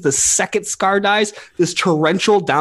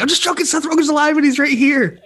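laughing reveal; 11 semitones higher than usual. Retold or imitated. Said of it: "is like".

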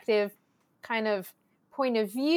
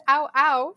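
Lebanese-style "ow, ow" dog noise; dog bark imitation; 3 semitones higher, 6 dB louder than usual. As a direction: imitate mom doing a dog's bark. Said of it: "talking about the dogs, and my mom went".

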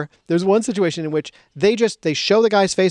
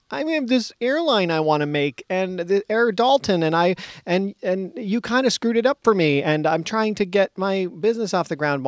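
mock whiny pleading, pitched higher; whiny Jack; 5 semitones higher than usual. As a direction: whine it like a friend begging for a favor. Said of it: "whine, whine, whine".

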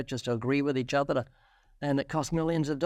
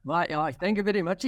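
put-on German accent; 4 semitones higher than usual. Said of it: "Ray, do a German accent".

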